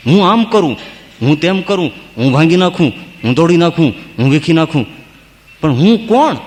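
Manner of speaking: lampoon the ego; mock boasting. Preacher imitates a boastful man, mock swagger. Mocking arrogant man's boasts.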